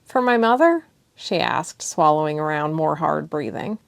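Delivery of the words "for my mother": high breathy question. Acted. Thessia's breathless tearful question.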